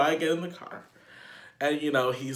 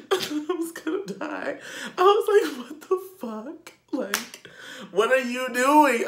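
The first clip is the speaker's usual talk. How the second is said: much higher, squeaky shocked voice; high-pitched disbelief; 11 semitones higher than usual. Retold or imitated. Reliving the awful kiss with the guy, high-pitched horror. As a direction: sound horrified and high.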